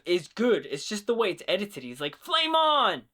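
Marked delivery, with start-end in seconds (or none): 2.2-3.0 high, loud mock scream of flame on; a hammed-up battle cry, higher and louder. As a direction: belt it out like a hero powering up. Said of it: "when he screams".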